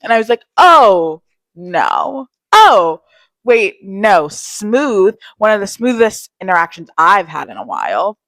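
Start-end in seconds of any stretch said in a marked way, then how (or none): 0.6-4.3 startled no. Retold or imitated. To the construction worker asking her number, flustered loud no. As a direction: blurt out a panicked no. Rejecting a guy's number request.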